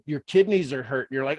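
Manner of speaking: ordinary talk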